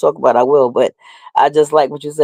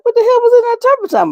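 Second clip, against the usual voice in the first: mock disbelief. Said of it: "and I was like".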